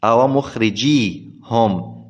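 "مخرجيهم" as mukhrijee-hum, ya left single; lightened ya. Shown as a demonstration. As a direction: slowly say "مخرجيهم" with a plain long ee, no doubled y. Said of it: "بتخفيف الياء".

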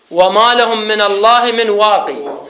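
recite, ending "واقي" on long ee; Ibn Kathir's reading. Shown as a demonstration. Teacher recites third example verse, "واقي" with long final ee. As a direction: stop on "واقي" with the yaa sounded. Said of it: "فقال هكذا في قراءته".

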